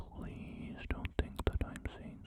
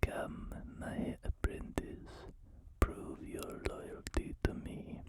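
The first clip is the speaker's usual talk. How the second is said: put-on slow whispered emperor in a weird accent; a hint of a sinister Sith master, drawn out; Palpatine voice; slower than usual. Emperor demanding loyalty from his apprentice, slow whisper. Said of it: "my voice for him keeps drifting into some, like, weird accent".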